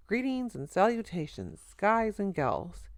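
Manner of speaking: slow, drawn-out showman's hello; a slow, hammed-up vaudeville welcome; showy grand greeting. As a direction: stretch every word like a stage entrance. Al's showy grand entrance greeting.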